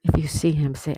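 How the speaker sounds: firmly projected game instruction; loud instruction. Real, not acted. Host announcing the Waldo game rules to viewers, loud. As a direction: call it out to the whole chat.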